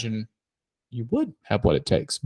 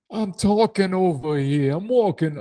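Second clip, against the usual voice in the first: high, slow goofy voice; silly impression; 7 semitones higher than usual. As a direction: pitch it up and drag it out. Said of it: "These impressions keep getting so much better".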